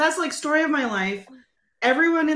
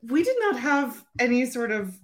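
put-on slow, grumbling old lady on the lawn; drawn-out cranky old-timer; slower than usual. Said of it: "like, the old lady on my lawn".

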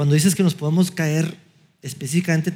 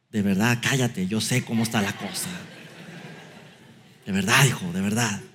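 condescending father; 5 semitones lower than usual. Retold or imitated. A father lecturing his son that he knows best. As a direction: preach down to a son like a smug father.

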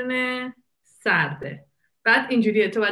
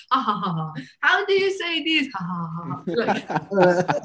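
mocking American friend; 2 semitones lower, much slower than usual. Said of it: "دوستای آمریکایی میان اینجا".

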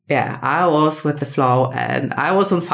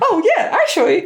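excited agreement; 9 semitones higher, 3 dB louder, faster than usual. Retold or imitated. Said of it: "I was like".

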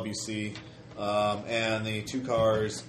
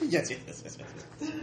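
high squealing glee; squealing baby talk aunt; 8 semitones higher, 4 dB quieter, faster than usual. Acted. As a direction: squeal yes over and over. GM voices gleeful imp.

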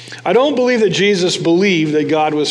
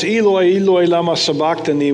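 mild loud cry. Retold or imitated. Jesus crying out from the cross, mild loud call. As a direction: cry the name out, held back. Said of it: "cried out in a loud voice".

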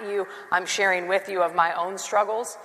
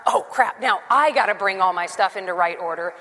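grudging complaint. Shown as a demonstration.

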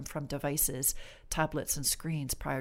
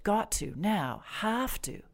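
demanding tone; 4 semitones higher, slower than usual. Shown as a demonstration. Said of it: "I'm talking in a very demanding tone".

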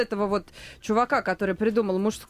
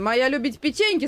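Cookie Monster voice; 3 semitones higher than usual. Retold or imitated. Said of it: "сказал Коржик".

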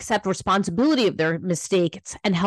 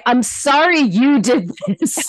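fake apology; 5 semitones higher, 7 dB louder than usual. Shown as a demonstration. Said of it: "And you don't say".

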